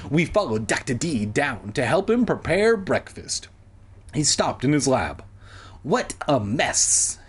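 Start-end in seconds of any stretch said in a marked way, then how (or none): 5.8-7.2 slow, mildly weary remark; understated slow sigh. Acted. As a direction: draw it out with a slight sigh. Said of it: "he sighed".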